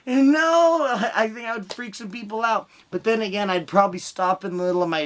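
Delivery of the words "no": flat refusal. Retold or imitated. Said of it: "you're like".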